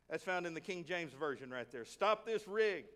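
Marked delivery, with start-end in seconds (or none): 1.8-2.9 milder repeat of a slow holler; mock yell. Preacher jokingly repeating the chariot order, mild mock yell. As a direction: stretch the words like a half-hearted yell. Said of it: "He yelled out".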